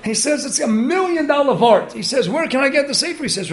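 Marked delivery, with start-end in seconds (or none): 0.4-1.9 higher-pitched excited quote; imitating an excited rabbi. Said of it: "Rosh Hach was so excited". 2.3-3.2 higher-pitched eager question; retold excitement; excited. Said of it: "Rosh Hach was so excited".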